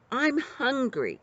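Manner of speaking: high, whiny spoiled prince; the spoiled prince whines at the outlaws, high and petulant; complaining prince. A narrator's reading. Prince complains to his captors, whiny and high. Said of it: "complained the prince".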